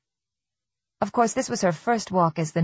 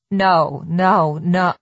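loud, insistent no; firm no; 4 dB louder, much slower than usual. Acted. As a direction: shut the thought down hard. Stopping panicked thoughts.

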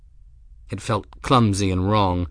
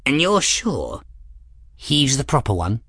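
put-on higher, doubtful old man voice; fussy old man; 5 semitones higher than usual. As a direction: fret like a fussy old scholar. Eccentric old man Ferris.

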